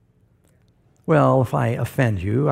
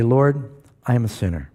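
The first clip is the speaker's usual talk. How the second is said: sample prayer; 3 semitones lower than usual. Shown as a demonstration.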